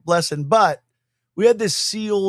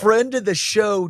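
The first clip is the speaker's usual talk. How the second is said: slower, savoring the title; slow proud echo; 4 semitones higher, slower than usual. Pretend. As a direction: draw out the honor with relish. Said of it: "we can now say this".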